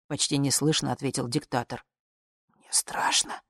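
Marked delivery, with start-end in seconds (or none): 2.6-3.4 scared, breathy whisper; frightened whisper. Acted. Old dictator admitting fear to the woman, whispered. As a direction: confess the fear barely voiced.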